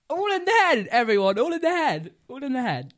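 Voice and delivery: high, loud declaration, easing off; loud proclaiming. Real, not acted. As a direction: call it out to everyone. Mock boast after his story.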